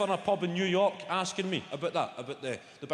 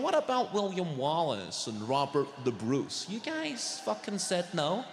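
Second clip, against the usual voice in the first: put-on American accent; slower than usual. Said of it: "And he's going".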